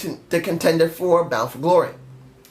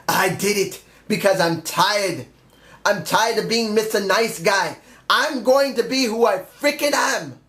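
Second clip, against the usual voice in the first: half-serious wrestler promo imitation that climbs higher; imitating Drew Galloway; 3 semitones higher than usual. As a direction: start as a hint of a cocky wrestler, then pitch up into a bold promo. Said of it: "Let him come out in a kilt saying".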